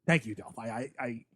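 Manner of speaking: mock choked-up, voice fading. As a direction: pretend to choke up on the thanks. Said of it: "I'm choking up here a little bit".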